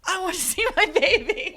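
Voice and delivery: high, loud pleading cry; reliving the yell in labour, high and loud; retold birth yell. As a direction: yell it out mid-labour, desperate for the baby. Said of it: "I was screaming and yelling".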